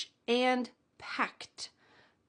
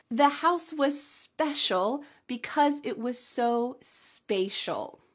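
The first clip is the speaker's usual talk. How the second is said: slow choral read; slower than usual. Shown as a demonstration. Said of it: "say it out loud with me".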